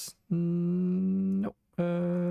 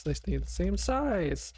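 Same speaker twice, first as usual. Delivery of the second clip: slow, higher, amazed; amazed disbelief; 4 semitones higher than usual. Real, not acted. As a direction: draw it out in disbelief. Third repeat, amazed at result.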